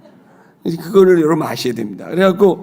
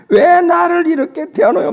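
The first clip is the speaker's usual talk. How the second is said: put-on wailing child; 14 semitones higher, 4 dB louder than usual. Daughter wails against her illness.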